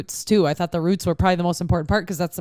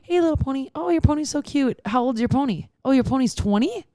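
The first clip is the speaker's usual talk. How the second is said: cooing at a pony; 4 semitones higher than usual. Retold or imitated. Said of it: "Haven't you ever met a little pony and said".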